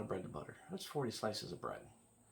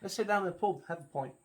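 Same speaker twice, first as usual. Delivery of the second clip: loud, higher-pitched mock Cockney; playful amateur Cockney, pitched up and punched out; Cockney accent; 8 semitones higher, 7 dB louder, faster than usual. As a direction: put on a hearty English pub accent. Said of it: "right kind of a Cockney English accent".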